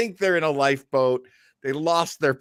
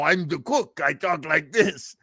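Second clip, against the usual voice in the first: mock cook voice; 2 semitones higher than usual. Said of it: "My favorite is like".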